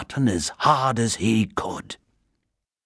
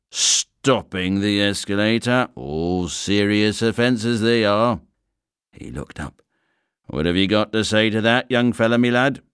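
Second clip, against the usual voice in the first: stern inspector. Acted. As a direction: play a weary station inspector. Inspector lists the offences.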